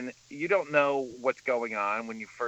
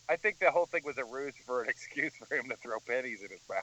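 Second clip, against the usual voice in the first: laughing; 3 semitones lower, 6 dB quieter, faster than usual. Real, not acted. Joking about pennies in mouth.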